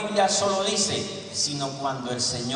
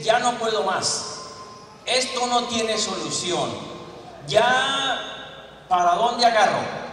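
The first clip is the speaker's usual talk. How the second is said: desperate cry; 5 semitones higher, 5 dB louder than usual. Acted. Preacher voicing a desperate believer.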